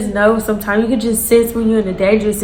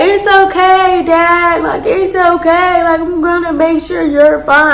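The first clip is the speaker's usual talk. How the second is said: higher, slow, sing-song reassurance; daughter soothing dad; 7 semitones higher than usual. Retold or imitated. Daughter gently soothing her father, sing-song. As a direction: coo it like a daughter calming her drunk dad. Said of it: "his daughter was like".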